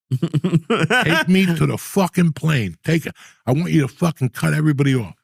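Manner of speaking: mock demand. Imagined bribe demand, laughing.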